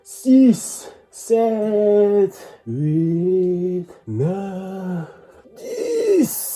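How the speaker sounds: strained counting mid push up; doing push ups. Real, not acted. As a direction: count reps while straining.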